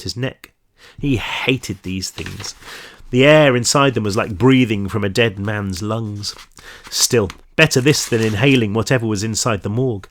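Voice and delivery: measured audiobook-style story reading; story narration. A narrator's reading. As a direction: read the crime story aloud to listeners. Reads story aloud.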